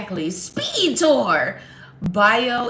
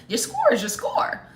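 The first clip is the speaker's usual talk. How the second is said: mock stern.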